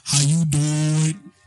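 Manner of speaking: drawn-out mock-flirty greeting; playful catchphrase come-on. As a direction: stretch it out like a cheesy pickup.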